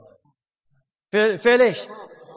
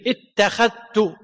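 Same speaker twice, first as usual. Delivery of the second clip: slow; much slower than usual. Shown as a demonstration. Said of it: "انتبه".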